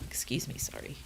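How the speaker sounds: throat tickled by dust, breathy apology; coughing on dust. Real, not acted. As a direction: apologize while clearing a dusty throat. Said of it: "I think I just breathed in some dust".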